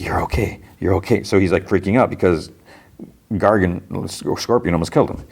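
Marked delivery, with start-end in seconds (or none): 0.0-1.2 reassuring. Acted. Spider-Man calms himself, breathing hard.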